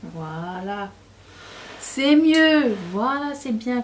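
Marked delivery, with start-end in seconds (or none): 1.8-3.8 relieved. Real, not acted. Relief after fixing makeup.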